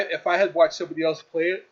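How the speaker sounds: talking through a yawn; mid-yawn, words stretched. Real, not acted. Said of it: "excuse me about the yawning".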